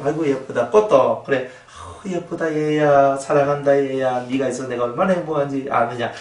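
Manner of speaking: 꽃에게 다정하게. Retold or imitated. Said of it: "이 속에 행복감을 이 꽃한테 전달해주면요".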